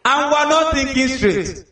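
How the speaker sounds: laughing, pitch up, slow. Real, not acted. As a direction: talk through a real laugh. Laughs recalling the scene.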